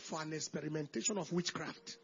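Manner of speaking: low, soft, measured self-affirmation; private self-talk. Acted. Talking to yourself at the mirror, quiet self-affirmation. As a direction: say it softly to yourself, low and assured. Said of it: "when you stand in front of your mirror".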